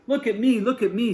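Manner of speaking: high, loud boastful call; proud showing off. Acted. Sebastian showing off to the boy, high and loud. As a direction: strut and shout look at me. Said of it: "struts proudly in front of the boy".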